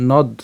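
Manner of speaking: "নদ" closed on the d; broken-up pronunciation. Shown as a demonstration. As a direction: say "নদ" as a separate syllable. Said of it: "উচ্চারণ করতে পারি এইভাবে".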